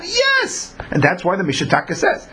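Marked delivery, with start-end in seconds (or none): 0.0-0.8 high, ringing exclamation of approval; emphatic yes. Real, not acted. Teacher urging students to make every effort, ringing high yes. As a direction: cheer the effort on.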